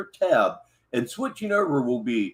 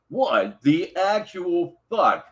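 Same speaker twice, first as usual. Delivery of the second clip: incredulous; 4 semitones higher, much slower than usual. Real, not acted. Baffled by a video title.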